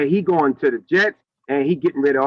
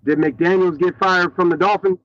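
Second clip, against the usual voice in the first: sounds like a hand over the mic; muffled mic, words dulled. Real, not acted. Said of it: "you sound muffly".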